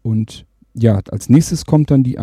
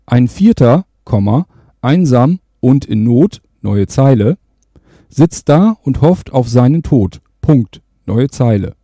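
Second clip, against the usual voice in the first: dictating; 4 dB louder than usual. Shown as a demonstration. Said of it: "spreche dann diesen Text rein".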